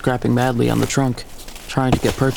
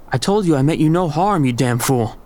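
sounding like his father; 3 semitones higher than usual. Acted. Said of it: "I sounded like Da".

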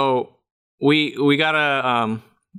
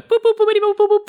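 high chirpy robot boops; 4 dB louder, much faster than usual. Pretend. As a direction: beep it out like a toy robot. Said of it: "That's my robot noise".

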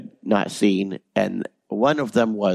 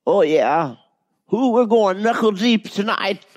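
put-on high old Southern granny, much higher; cackly old granny teasing a boy, pitched way up; Granny Squidbilly voice; 9 semitones higher than usual. Shown as a demonstration. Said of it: "my Granny Squidbilly voice".

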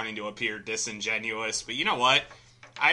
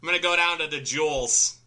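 Chicago accent; 3 semitones higher than usual. Shown as a demonstration. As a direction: add an S like a Chicago local. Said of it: "You also have to add S's to everything".

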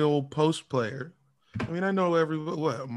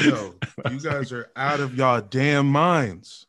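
laughing. Real, not acted. Laughing reply to fans.

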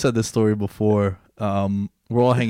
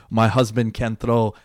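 bad Brazilian accent; slower than usual. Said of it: "Terrible Brazilian accent".

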